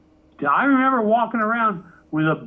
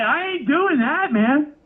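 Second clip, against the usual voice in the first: flat refusal; 9 semitones higher than usual. Retold or imitated. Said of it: "I'm like".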